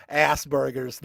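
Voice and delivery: Asperger's with weight on the burgers part; emphasis on burgers. Shown as a demonstration. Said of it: "with the emphasis on the burgers part".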